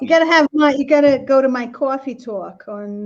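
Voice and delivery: put-on playful Long Island accent on "coffee talk"; New York-area accent, played for fun. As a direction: ham up the Long Island vowels. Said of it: "We don't need your fake accent".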